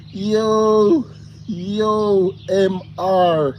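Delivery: loud, high hail to a viewer; excited loud greeting. Real, not acted. Streamer hailing a chat viewer, loud and excited. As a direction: shout the greeting out with glee.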